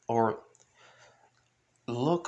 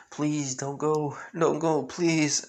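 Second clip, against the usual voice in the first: mildly pleading, a touch higher; mock crying plea; 3 semitones higher than usual. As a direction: beg with a hint of tears. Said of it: "Everyone just cries and says".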